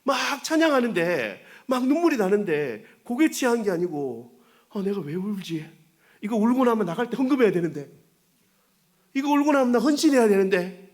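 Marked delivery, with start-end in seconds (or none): 4.7-10.8 higher, louder, rushing worried thought; panicking mid-tears about the offering; comic inner panic. Retold or imitated. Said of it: "이런 마음 들 때 있죠". (높고 크게 허둥대는 속마음)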